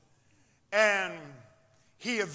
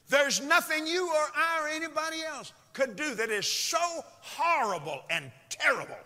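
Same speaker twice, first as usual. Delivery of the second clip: emphatic preaching; 9 semitones higher, 6 dB louder than usual. Acted. Preacher at full force.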